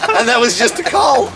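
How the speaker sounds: can barely get the words out for laughing. Real, not acted. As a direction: still cracking up. Still laughing through the story.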